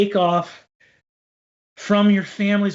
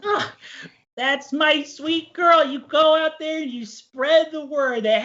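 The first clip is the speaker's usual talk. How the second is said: gentle folksy dad; 5 semitones higher than usual. Acted. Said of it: "and he says".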